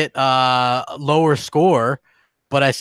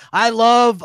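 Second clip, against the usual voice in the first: attempted thick New York accent, pitched up; half-managed New York accent impression; Boom; 6 semitones higher than usual. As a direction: have a go at a New Yorker's accent. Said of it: "I can't even do a Boom impersonation".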